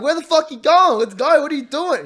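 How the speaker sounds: high, loud, laughing challenge; retold challenge. Owner calling out the fleeing neighbour, loud and laughing. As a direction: call him out as you open the gate.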